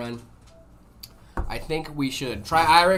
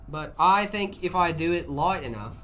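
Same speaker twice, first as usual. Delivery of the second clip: light British accent drifting into Australian; British-Australian muddled accent; British accent slipping Australian. Shown as a demonstration. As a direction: attempt British and slide toward Australian. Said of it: "I went Australian there for a second".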